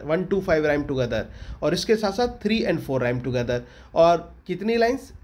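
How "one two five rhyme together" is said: slowly spelling out one, two, five for notes; one, two, five said slow and deliberate, word by word; dictating to students; slow dictation. Shown as a demonstration.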